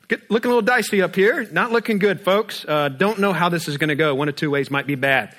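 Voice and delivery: a hint of a nervous captain breaking bad news; worried captain. Pilot warning passengers about the rough flight, mild mock worry. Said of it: "the pilot comes from the front".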